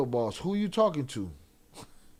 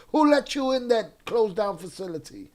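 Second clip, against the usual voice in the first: mock scolding; 6 semitones higher, 4 dB louder than usual. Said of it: "C J and J is scolding the moms".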